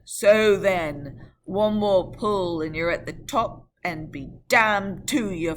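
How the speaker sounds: loud, rough urging; coachman urging. Acted. Coachman cursing his horses up the hill, loud.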